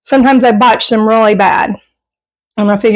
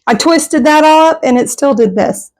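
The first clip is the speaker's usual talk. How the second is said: talking through a mouthful; words round a bite of pasta; mouth full; 3 semitones higher than usual. Real, not acted. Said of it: "I'm gonna try to talk with my mouth full".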